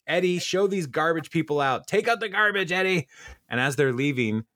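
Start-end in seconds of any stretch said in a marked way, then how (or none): 0.1-3.1 high, hammed-up rich blowhard ordering his servant; mock snooty billionaire. Feinstein throwing out the Sweetums crew, hammed-up high sneer. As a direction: sneer it up high like a pompous tycoon. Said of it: "And he's like".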